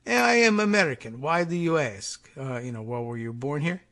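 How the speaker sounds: a spy lying about being American, in a thick mock Russian accent. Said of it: "pretending to be".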